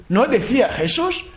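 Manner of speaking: ordinary talk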